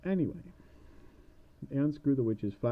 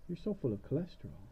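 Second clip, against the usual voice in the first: witch voice; 3 semitones higher, 3 dB quieter than usual. Acted. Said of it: "she's looking at him like".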